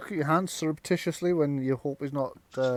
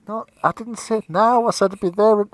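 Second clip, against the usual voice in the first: higher, louder mistress calling down; irritated shout down the stairs; calling from upstairs; 8 semitones higher, 10 dB louder than usual. Acted. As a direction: call down the staircase in exasperation.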